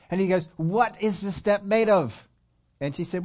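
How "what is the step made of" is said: slow, higher, measured professorial question; imitated lecturer, pointed and unhurried; German professor. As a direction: quote a professor spacing out each word deliberately. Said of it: "professor had a German accent".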